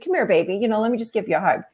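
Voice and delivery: softened retold comfort to a little one; tender comforting. Mother to her hurt toddler, tender comforting.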